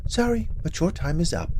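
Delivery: a hint of a gloating witch. Witch threatens Grim.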